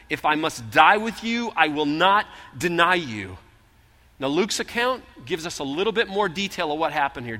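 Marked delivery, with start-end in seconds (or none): 0.1-3.4 louder, slower firm vow; emphatic. Acted. Peter firmly vowing loyalty to Jesus at supper. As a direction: lean on every word of the promise. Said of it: "He says emphatically".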